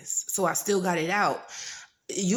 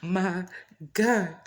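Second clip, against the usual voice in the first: loud, stunned oh my God; shocked gasp; 5 dB louder, slower than usual. Retold or imitated. Dreamer reacting to the shaking ground, shocked and loud. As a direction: blurt it out in shock.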